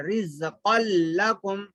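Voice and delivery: रिज़्क़ल लकुम with held double l; merged lam recitation. Shown as a demonstration. Teacher repeating after spelling it out, merged lam. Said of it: "क़न लिखा हुआ है".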